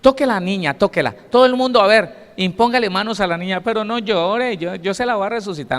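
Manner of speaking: mock the overly kind humanist Jesus, sweetly; soft indulgent Jesus. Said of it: "como dicen muchos humanistas".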